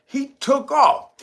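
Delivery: high, loud and stretched out, cracking up; drawn-out hyped holler as he bolts; excited shout. Real, not acted. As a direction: yell it like the chase is on. Hyped retelling of escape chase.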